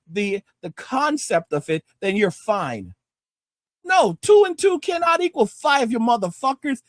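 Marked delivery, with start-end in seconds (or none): 3.8-6.8 angry rant. Real, not acted. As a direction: hammer home the answer. Ranting at Gen Z.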